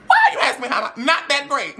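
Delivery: laughing, voice up high. Real, not acted. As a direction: giggle through the words.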